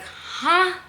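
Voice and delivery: squeaky, high "Huh?" with a laugh in it; mock bewildered. Fan reacting to the author's twist, laughing in mock bewilderment. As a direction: play up the shock of the twist, laughing. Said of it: "I was like".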